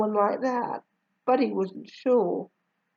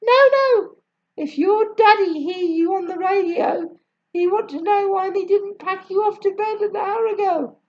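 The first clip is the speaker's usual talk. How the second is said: much higher Jamaican mother, firm; Jamaican accent; 11 semitones higher, 4 dB louder than usual. A narrator's reading. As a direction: Jamaican mum stopping the child. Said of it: "I will try my best".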